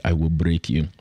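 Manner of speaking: low mock Russian accent; put-on Russian tough-guy threat. Someone comes up threatening him, in a Russian accent. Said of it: "with a Russian accent and said".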